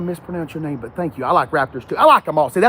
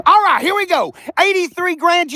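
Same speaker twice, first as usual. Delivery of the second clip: higher, through laughter; laughing; 11 semitones higher, 5 dB louder than usual. Real, not acted. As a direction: keep laughing as you talk. Still laughing after a joke.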